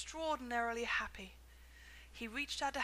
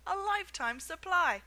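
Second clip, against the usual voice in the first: excited; 8 semitones higher, 9 dB louder than usual. A narrator's reading. Envious boy continuing.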